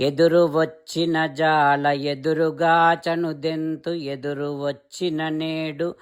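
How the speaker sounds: quick, lilting recital of a Telugu verse; verse recitation. Acted. Narrator recites the gopikas' plea to Krishna, chanting. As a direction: roll through the verse in a steady chant.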